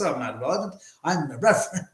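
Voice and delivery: lightly affected, lisping comic correction; a hint of a pompous, swooping character voice; Jiminy Glick. Host imitates how the character would think, in a lightly lisped impression. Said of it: "He would say the word and goes".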